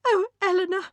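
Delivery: put-on high, anguished cry of a young woman. A narrator's reading. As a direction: cry her sister's name in remorse. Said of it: "she cried".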